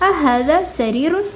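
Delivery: slow, careful Arabic question with rising end; slow teacher reading; slow model question. Shown as a demonstration. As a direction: read it out slowly like a teacher. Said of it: "ഈ ഒരു കാര്യം കാണിച്ചിട്ട് ചോദിക്കുവാണ്".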